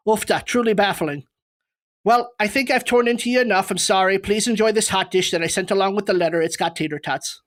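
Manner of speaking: Minnesotan attempt slipping slightly Irish; Minnesotan accent. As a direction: mimic a Minnesotan, drifting toward Irish. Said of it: "to mimic a Minnesotan".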